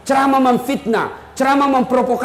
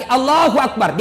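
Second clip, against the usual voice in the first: takbir demo. Shown as a demonstration. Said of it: "seperti Pak Polisi tadi".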